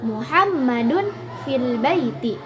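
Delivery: Muhammadun stressed and drawn out at the start; slowly, with the weight on "Muhammadun". Shown as a demonstration. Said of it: "maka tekanannya pada mubtada".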